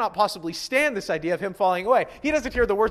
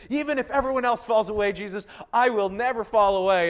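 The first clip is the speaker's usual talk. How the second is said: blurting boast; 3 semitones higher, 3 dB louder than usual. Retold or imitated. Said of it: "blurting out something like this".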